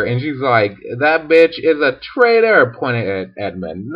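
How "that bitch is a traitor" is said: higher-pitched, lightly acted denunciation; mildly hammed-up indignation; mock accusation. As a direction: accuse with a touch of comic outrage. Acted witch accuses Edmund.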